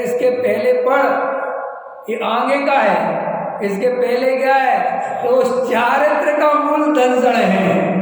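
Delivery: a hint of the guru's insistent correction; mild mock teacher voice; imitating the guru. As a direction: lightly voice the teacher putting his pupil right. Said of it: "तो गुरुदेव बहुत चले रहे थे".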